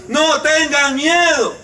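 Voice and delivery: slow, steady comfort; slow reassurance. Acted. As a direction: say it slowly, like calming a child. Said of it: "el Señor ... nos dirá". (el Señor tranquiliza, lento y sereno)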